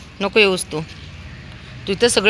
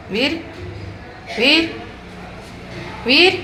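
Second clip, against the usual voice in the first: raised, high-pitched call of a name; 9 semitones higher, slower than usual. Real, not acted. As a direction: call after someone running off. Calling runaway Veer back.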